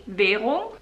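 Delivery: "Währung" with a closed E in the first syllable; E-like vowel. Shown as a demonstration. Showing their own habit, "Währung" with an E. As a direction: say "Währung" as if spelt with an E. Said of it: "I almost pronounce it with an E".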